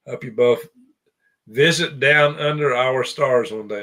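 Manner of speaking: put-on a weak, half-hearted Australian accent on a viewer's message; bad Australian accent. Host reading a viewer's note in a bad Australian accent. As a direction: read the comment in a clumsy Australian accent. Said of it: "That was a terrible accent for Australia".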